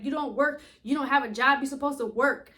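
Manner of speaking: lightly imitating an irritated five-year-old; a hint of a sassy kid scolding her mom; mild mock attitude, insistent. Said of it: "she is irritated with an attitude".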